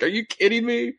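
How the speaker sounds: disbelieving. Retold or imitated. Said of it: "I was like".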